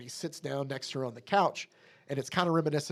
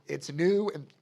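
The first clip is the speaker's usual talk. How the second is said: real emotion creeping into a read-out; getting emotional; 4 semitones higher, slower than usual. Real, not acted. Podcaster moved reading the comic's last words, getting emotional. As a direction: start reading on, then falter with feeling. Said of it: "I don't know why I'm getting emotional".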